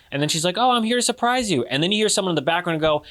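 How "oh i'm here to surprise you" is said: high, quick acted girlfriend; chirpy girlfriend. Girlfriend surprises him at college, high quick acted chirp.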